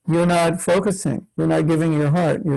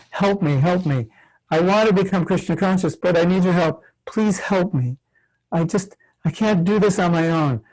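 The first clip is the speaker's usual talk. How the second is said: earnest, pleading appeal for help; sincere, urgent pleading with emphasis on please; heartfelt plea. Shown as a demonstration. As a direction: beg for help as if you truly need it. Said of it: "it would sound like this".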